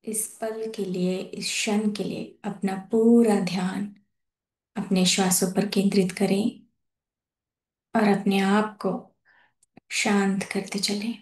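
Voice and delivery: calm, measured phrases with long pauses; guided meditation. Real, not acted. Host leading masters to settle into their breath, guided meditation. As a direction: guide them gently into breath awareness, unhurried.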